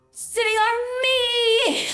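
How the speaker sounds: high laughing whine. Real, not acted. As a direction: stretch it out, half crying with laughter. Repeats, crying laugh.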